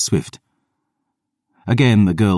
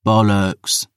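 scoff; 5 semitones higher than usual. Acted. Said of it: "another lad scoffed".

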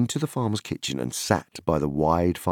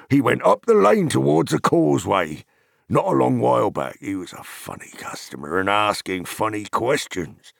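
hospitable hobbit farmer. Acted. Farmer inviting Pippin and friends in for ale, hospitable farmer voice. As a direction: tell the news, then ease into an invitation.

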